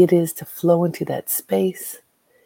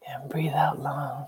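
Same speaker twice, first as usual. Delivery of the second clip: unvoiced, softer breathing cue whisper; 2 semitones lower, 8 dB quieter, slower than usual.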